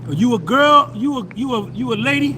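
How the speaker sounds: loud, startled double-take at a comment; sudden loud surprised question. Real, not acted. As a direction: blurt it out in disbelief. Reading a chat comment aloud, surprised.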